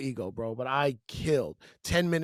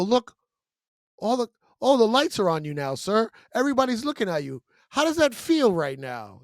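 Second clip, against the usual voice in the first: raised, louder stage call-out; confronting a heckler; 5 semitones higher, 4 dB louder than usual. Retold or imitated. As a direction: put the heckler on the spot before the crowd.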